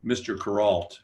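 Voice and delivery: pointed mock address with attitude. Young guy challenging Kuralt at lunch, with attitude. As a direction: imitate a young guy challenging his elder. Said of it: "he said this with attitude".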